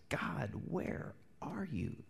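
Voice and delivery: slow whispered cry to heaven; King David's hushed plea. Acted. Preacher voicing David praying after a night of tears, hushed plea. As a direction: whisper it slowly, as an anguished prayer.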